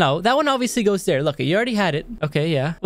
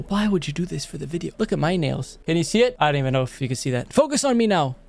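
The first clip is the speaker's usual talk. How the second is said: ordinary delivery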